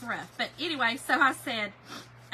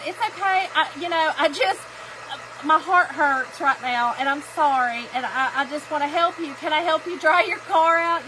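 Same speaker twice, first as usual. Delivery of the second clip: tearful; 6 dB louder than usual. Retold or imitated. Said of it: "I'm a crier".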